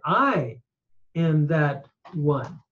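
"I" set apart before a pause; emphatic I. Shown as a demonstration. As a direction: stress "I", pause, then finish evenly. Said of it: "this I is emphatic".

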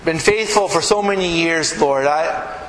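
earnest spoken prayer. Acted. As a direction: pray humbly for the congregation. Pastor leads closing prayer.

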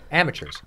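"Amateurs" said as "am-a-chers"; coached pronunciation. Shown as a demonstration. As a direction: demonstrate "Amateurs" ending in "chers". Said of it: "Like, a-, think amateur".

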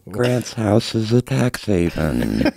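slow, even robot monotone. Shown as a demonstration. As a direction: talk like a machine, word by word. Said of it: "do the robot voice while you do that".

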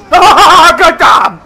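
loud shocked laugh; laughing curse. Real, not acted.

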